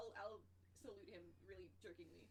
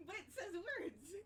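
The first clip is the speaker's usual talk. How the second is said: high, drawn-out plaintive yell; loud, whiny protest; calling down from aloft; 10 semitones higher, 7 dB louder, much slower than usual. Acted. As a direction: holler slowly so it carries down. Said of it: "scream for Captain".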